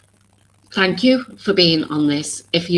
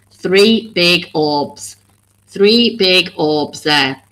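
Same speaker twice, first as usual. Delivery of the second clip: each word drawn out slowly for emphasis; a deliberate, slowed-down pointing-out; 4 dB louder, much slower than usual. Real, not acted. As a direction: spell it out slowly so they see it. Pointing out orbs on screen.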